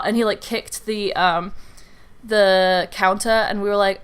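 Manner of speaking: ordinary talk, nothing marked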